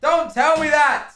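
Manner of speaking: high, loud cry of dismay; dismayed outburst. Real, not acted. Jack hears he says it wrong, dismayed outburst. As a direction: wail it out, drawn out at the end.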